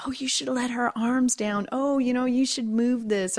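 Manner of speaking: lightly mock a worried, nagging mother; fretful mothering, played back as a retelling; fussing mother. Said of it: "I was being such a frickin' mother".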